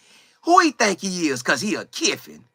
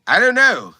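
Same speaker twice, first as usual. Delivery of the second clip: imitating sulky kid; 5 semitones higher, 4 dB louder than usual. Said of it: "they like".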